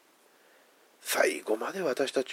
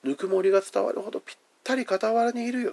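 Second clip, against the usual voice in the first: tender voiced promise; 9 semitones higher than usual. Shown as a demonstration. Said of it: "このニュアンス何かって言ったらね".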